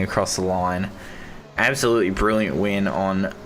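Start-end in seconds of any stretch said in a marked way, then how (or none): 1.6-3.3 strained, worn-out hoarse voice. Real, not acted. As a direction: voice nearly gone from shouting. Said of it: "my voice is gone".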